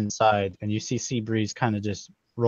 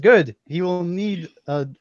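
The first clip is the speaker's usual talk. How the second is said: lightly voiced proud king; hearty royal tone; 5 semitones higher than usual. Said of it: "He says".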